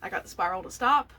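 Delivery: loud, high cheer of victory, arms in the air; triumphant shout. Retold or imitated. Woman retelling her win over anxiety, triumphant loud cheer. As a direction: shout it out like you just won. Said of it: "I literally put my arms up".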